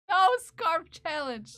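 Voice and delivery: loud, high and drawn out; mock outraged refusal. Streamer vetoing the scarf challenge, mock outrage. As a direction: burst out in playful protest.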